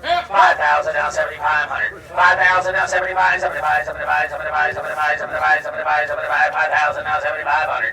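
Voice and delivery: rapid auctioneer bid chant. Real, not acted. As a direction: rattle off the bids like a livestock auctioneer.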